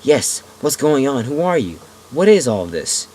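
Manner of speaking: loud, high, eager shouting; excited yell. Acted. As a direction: yell it out, thrilled for an answer. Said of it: "I yell excitedly".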